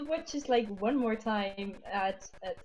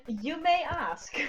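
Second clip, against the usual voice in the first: slow, higher-pitched, mock-gracious answer; haughty reply; 5 semitones higher, slower than usual. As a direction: draw it out as if granting permission. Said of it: "And she goes like".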